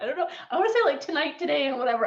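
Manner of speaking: fed up, rambling on; exasperated rant. Real, not acted. Frustrated at the line.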